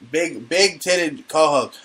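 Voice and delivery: slow, drawn-out repeat; slow relish. Pretend. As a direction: savor each word, stretching it out. Repeats her nickname, relishing it.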